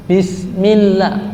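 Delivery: "Bismillah" with the "ll" clearly doubled; correct tasydid. Shown as a demonstration. Teacher demonstrating correct recitation, doubled l. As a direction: hold the l in "Bismillah". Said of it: "Tasdidnya dibuang".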